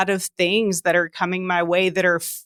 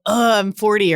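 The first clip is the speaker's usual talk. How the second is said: excited take; 3 semitones higher, 3 dB louder than usual. Shown as a demonstration.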